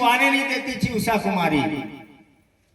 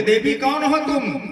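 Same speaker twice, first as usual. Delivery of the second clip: higher, louder startled cry; loud frightened call; 6 semitones higher, 4 dB louder than usual. Acted. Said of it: "जोर से आवाज से बोला". (डर से ज़ोर से पुकारना)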